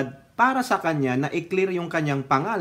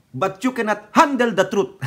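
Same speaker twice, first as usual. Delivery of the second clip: general's retort; 5 semitones higher, 4 dB louder than usual. Retold or imitated. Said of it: "Sabi nung officer".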